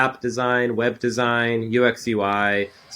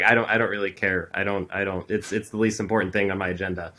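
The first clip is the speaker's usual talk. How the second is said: bored indifference; 4 semitones lower, 5 dB quieter than usual. Retold or imitated. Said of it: "everyone's like".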